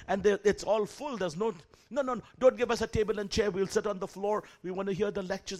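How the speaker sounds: insistent pleading. Retold or imitated. Students insist, voiced higher.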